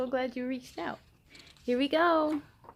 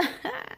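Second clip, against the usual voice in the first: mocking laugh; 9 semitones higher, 6 dB quieter than usual. A narrator's reading. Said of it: "D J laughed".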